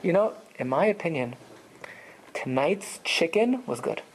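rate the dinner like a critic; dry, considered judgment; measured verdict. Shown as a demonstration. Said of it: "So it depends how you say it".

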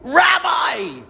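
put-on frail old lady booming from the back of the room; booming call. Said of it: "She has a booming voice".

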